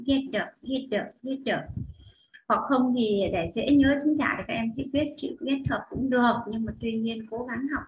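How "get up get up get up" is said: "Get up" run together as one word; linked pronunciation. Shown as a demonstration. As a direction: carry the t of "Get" straight into "up". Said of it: "Các bạn có thể đọc nối".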